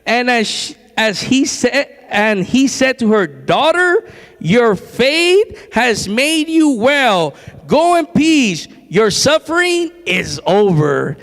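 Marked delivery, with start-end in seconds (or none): 3.3-11.2 very slow, drawn-out words of blessing; stately scripture quote, lifted then settling at the end; solemn pronouncement. Acted. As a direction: pronounce it deliberately, phrase by phrase. Reads Jesus's words to the woman.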